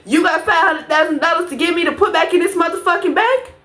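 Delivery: furious at the friend's sorry; getting mad. Real, not acted. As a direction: snap back at the apology. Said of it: "I'm getting mad".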